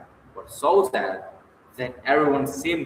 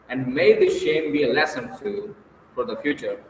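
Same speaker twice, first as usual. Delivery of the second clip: raised, grand public address; pompous speech; 3 semitones higher, 3 dB louder than usual. Acted. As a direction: lecture them grandly with mock pity. Luzin addresses group.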